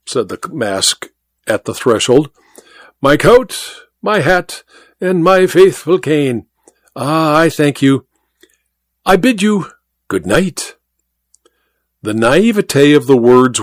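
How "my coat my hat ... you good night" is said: lightly voiced, higher, courtly thief bowing out; a hint of a polite showman's farewell; suave masked magician. Masked thief thanking the hosts at the cloakroom door, courtly.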